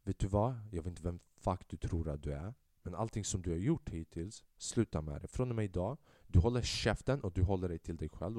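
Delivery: lightly voiced gang leader warning him off; Corleone-style threat. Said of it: "Corleone-vibe till sig".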